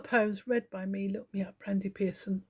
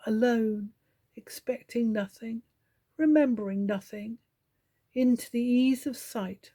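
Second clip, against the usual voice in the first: poetry reading. Acted. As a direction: read the poem meditatively, line by line, leaving space. Reads a meditative poem aloud, slowly.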